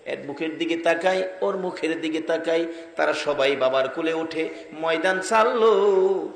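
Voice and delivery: half-sing the story, rising on the cries; melodic sermon storytelling. Acted. Preacher telling of Amena consoling young Muhammad, melodic chanting.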